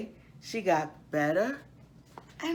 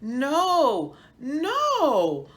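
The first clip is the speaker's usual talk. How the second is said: higher, louder laughing protest; laughing cry; 10 semitones higher, 7 dB louder than usual. Acted. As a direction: laugh it out to stop the brothers. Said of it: "cried Karen".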